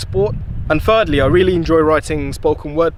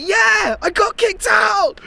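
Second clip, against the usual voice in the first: put-on high, slow, shouted childish answer; much slower than usual. Boy answering mum, retold.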